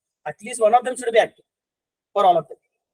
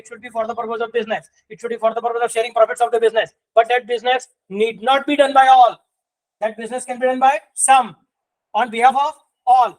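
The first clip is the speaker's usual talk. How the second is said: slow dictation; much slower than usual. Shown as a demonstration. Reading the legal definition out.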